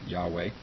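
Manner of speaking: Yahweh said YAH-way; chosen pronunciation. Shown as a demonstration. Teacher keeps pronouncing the name, Yahweh as YAH-way. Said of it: "I'll keep pronouncing it".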